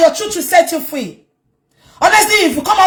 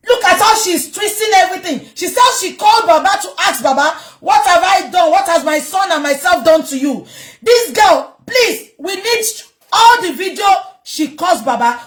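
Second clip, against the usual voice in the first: raised, heated voice, higher; angry; 4 semitones higher than usual. Real, not acted. Speaker denouncing the girl to viewers, angry raised voice. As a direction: call her out with real anger.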